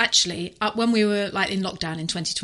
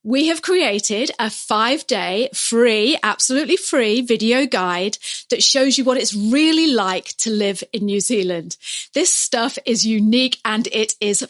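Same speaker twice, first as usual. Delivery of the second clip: promo read; 4 dB louder than usual. Acted. Upbeat promo read over music.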